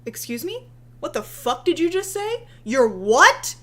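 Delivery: fake-offended follower spitting back "What the fuck did you just say?"; incredulous outrage. Mocking her followers as they turn on her, incredulous outrage. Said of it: "their followers go".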